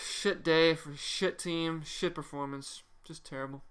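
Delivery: worn-out disappointed fan; defeated disgust. Real, not acted. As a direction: let it all drain out. Defeated ending of rant.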